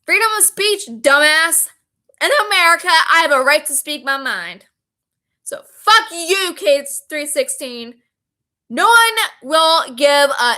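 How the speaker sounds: mildly heated, pitch jumping up at each phrase start; defiant tirade. Retold or imitated. Texter insisting on their right to speak, defiant.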